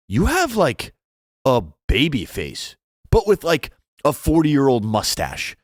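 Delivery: high, chirpy imitation of the flight attendant; man mimicking a flight attendant, high and sing-song; mock flight attendant. Retelling flight attendant's remark.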